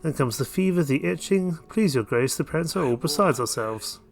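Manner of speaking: lightly acted distraught parent, pitch often lifted; worried villager. Voices a worried villager petitioner.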